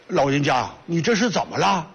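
put-on child calling 老人家 and asking 你这是怎么了 with a lisping, thick tongue; thick-tongued child. Boy asks the hanging old man, lightly lisping. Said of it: "这孩子说话还有点大舌头呢".

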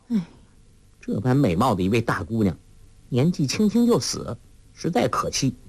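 sighing. Acted. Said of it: "黄蓉叹道".

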